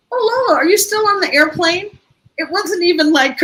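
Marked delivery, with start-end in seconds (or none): 0.1-2.0 put-on high, innocent little-girl question; child's voice. Grandmother imitating granddaughter on the phone, high child voice. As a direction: ask it like a puzzled small child.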